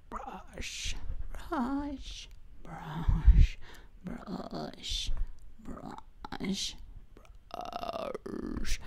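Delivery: whispered zombie rasp; breathy undead whisper. Pretend. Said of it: "my zombie voice is getting the control".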